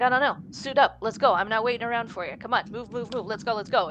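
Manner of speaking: briskly hustle someone along, as retold; lightly acted brusque urging; impatient hurrying. Retold Jane hurrying Simon impatiently.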